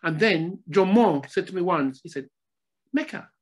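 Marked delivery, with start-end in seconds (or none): 2.9-3.3 put-on Scottish accent. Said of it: "He spoke in a Scottish accent".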